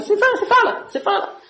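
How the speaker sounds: high mock chant of empty talking, with laughter; teacher mocking words said without meaning; mocking rote babble. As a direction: lampoon someone reciting without thinking. Mocking rote prayer, rambling on.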